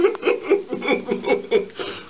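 sudden high giggle burst; helpless laughing. Real, not acted. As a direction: crack up, unable to hold it. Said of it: "I'm not gonna stop laughing".

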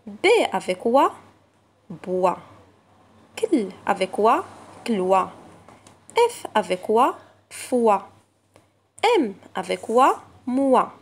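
letter plus "wa", then the blended word; teacher blending sounds for pupils; blending syllables. Shown as a demonstration. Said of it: "lecture des syllabes".

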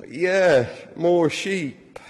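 mock half-hearted cheer; struggling enthusiasm. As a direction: feign interest in an all-too-familiar sight. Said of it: "struggling to respond with the same enthusiasm".

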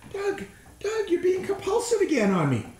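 high, laughing teasing voice; mock audience complaint. Audience teasing the speaker, high and laughing. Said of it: "you're saying".

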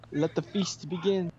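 slow, savoring mock villain line; slow villain gloat. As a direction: relish the feast like a hungry shark.

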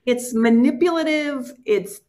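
teary voice. Real, not acted. Choking up while telling the podcast host about her dad. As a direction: hold back tears as you speak. Emotional after memory of dad.

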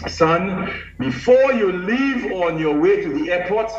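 commanding voice. Retold or imitated. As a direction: speak like a commanding archbishop. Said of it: "he still had that commanding voice".

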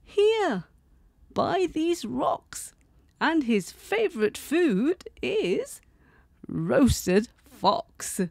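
high mouse with a sly whisper; little mouse teasing, hushed then high. Acted. Mouse voiced.

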